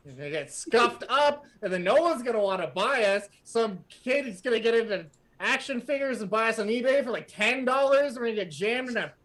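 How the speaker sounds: high, fast whining toy complaint; whiny toy. Acted. Toy laments to the party, high whiny rant. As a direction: wail about never being bought.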